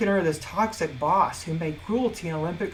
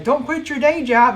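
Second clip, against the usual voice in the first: mocking imitation; 6 semitones higher, 7 dB louder than usual. Mocking relatives' discouragement.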